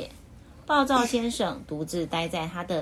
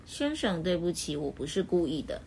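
softer, meek apology; hurt and wronged; 2 semitones lower, 4 dB quieter than usual. Acted. Mr. Happy meekly apologising to Mr. Grumpy, soft and hurt. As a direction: apologise while feeling wronged. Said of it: "快乐先生很委屈地回答".

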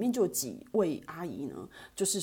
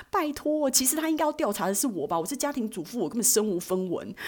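scoffing mother; 6 semitones higher than usual. Retold or imitated. Mom's scoffing quote.

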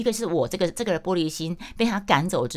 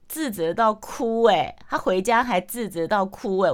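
slow, higher, stressed disbelief; incredulous gossip; 5 semitones higher, 3 dB louder, slower than usual. Retold or imitated. Friend relaying the sister cried, slow incredulous gossip. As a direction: stretch it out like juicy gossip.

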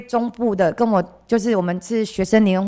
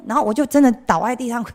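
ordinary talk

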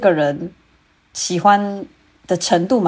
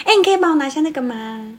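higher, quick and sweet; cute flirty voice; 5 semitones higher, faster than usual. Shown as a demonstration. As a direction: ask sweetly like to a crush. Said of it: "但如果是喜欢的人".

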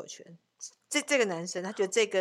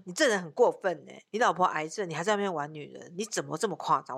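retold scolding. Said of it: "我还骂他".

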